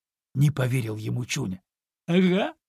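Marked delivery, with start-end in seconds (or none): 2.1-2.6 sly. A narrator's reading. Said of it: "лукаво подмигнул кролик".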